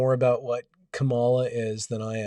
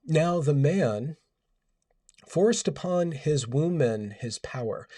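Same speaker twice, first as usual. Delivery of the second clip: scripture reading; slower than usual. Acted. Reading woke Bible verse.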